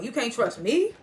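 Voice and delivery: mock-incredulous, rising sharply on "me"; "me" swung upward as a disbelieving question; incredulous retold question. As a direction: echo it back in mild disbelief, lifting "me".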